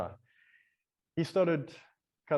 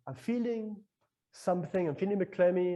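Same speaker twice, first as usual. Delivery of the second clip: higher, hesitant self-report; retold inner voice, pitched up; uneasy self-talk; 5 semitones higher than usual. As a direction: voice your own queasy thought, lifted in pitch. Narrator voices own unease.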